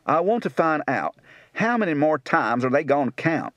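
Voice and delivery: rural Tennessee speech; Tennessee accent. Shown as a demonstration.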